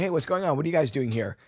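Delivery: high-pitched, unsuspecting hello; acted friendly greeting. Film character greets the approaching killers, acted unsuspecting greeting.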